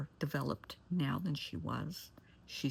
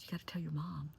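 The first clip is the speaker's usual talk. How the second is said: hushed urging; 2 semitones higher, 5 dB quieter than usual. Retold or imitated. Therapist urging girl privately.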